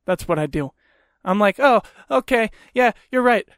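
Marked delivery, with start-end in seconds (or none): 1.6-3.5 mock agreement. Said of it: "I act like a cunt".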